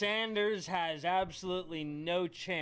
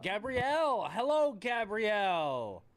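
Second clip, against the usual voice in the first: raised, drawn-out mock greeting; condescending; 3 semitones higher, 4 dB louder than usual. Real, not acted. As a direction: greet her slowly, talking down to her. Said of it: "I was being condescending".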